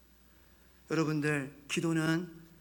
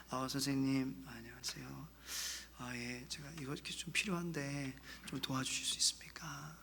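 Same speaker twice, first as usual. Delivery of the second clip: very soft, low, deferential voice; humble request; 6 semitones lower, 13 dB quieter than usual. Acted. Someone humbly asking a teacher for help, meekly. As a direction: shrink the voice down, near whisper, to ask politely. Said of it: "목소리 이렇게, 이렇게 하겠죠".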